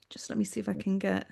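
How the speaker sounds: soft whisper to herself. Real, not acted. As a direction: whisper it while concentrating. Concentrating, asks for a moment.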